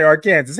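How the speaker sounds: "Arkansas" said as "Ar-kan-zas" with a sounded s; old school pronunciation. Shown as a demonstration. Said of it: "we would say Arkansas".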